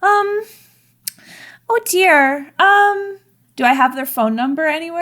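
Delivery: high, worried, fast oh dear; flustered panic. Acted. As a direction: panic sweetly, voice climbing. Customer didn't show up.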